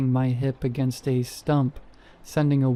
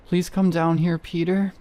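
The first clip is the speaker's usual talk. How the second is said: whimper; 5 semitones higher than usual. A narrator's reading. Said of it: "she said in a whimper".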